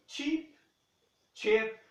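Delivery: "chip" with a ch and short vowel near e; short clipped vowel in "chip"; chip demo. Shown as a demonstration. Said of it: "Fala-se chip".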